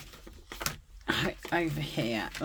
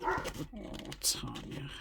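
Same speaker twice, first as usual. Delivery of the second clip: whispered sigh; 10 dB quieter than usual. Real, not acted. Sighing to herself at a mistake.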